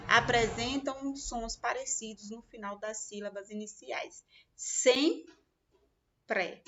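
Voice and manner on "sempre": "Sempre" said stretched, nasal em held; sound shown. Shown as a demonstration. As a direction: lean on the em in "Sempre". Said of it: "uma é escrita com M". ("Sempre" com o som nasal prolongado)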